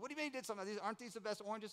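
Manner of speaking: high-pitched disbelieving questions; incredulous brother. Retold or imitated. Brother questioning him about the missing oranges, incredulous. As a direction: imitate a baffled brother, pitch jumping up.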